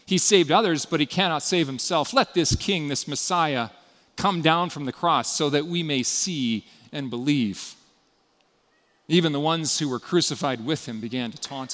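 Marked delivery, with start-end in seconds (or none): 0.1-7.7 mocking. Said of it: "mocking him amongst themselves".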